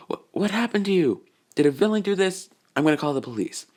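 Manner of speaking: high, worried motherly voice; a panicked mom fussing over her son; alarmed mother. Acted. Mother seeing her beaten son, high alarmed voice.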